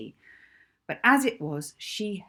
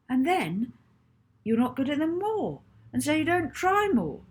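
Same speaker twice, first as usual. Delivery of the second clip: put-on rising, louder boy's plea; young boy pleading, climbing higher; earnest boy pleading; 6 semitones higher, 4 dB louder than usual. A narrator's reading. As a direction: build up as he pleads with her. Rocky lecturing Molly.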